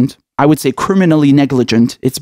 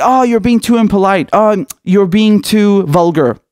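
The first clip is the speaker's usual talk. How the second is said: mock offended; 5 semitones higher than usual. Critics tone-policing someone they disagree with, mock offended. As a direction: imitate a prim scolding. Mimics critics faulting people's tone.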